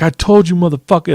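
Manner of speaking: high-pitched mock indignation; feisty put-on retort; worked-up retort. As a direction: imitate a riled-up old man. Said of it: "he was all G'd up and shit".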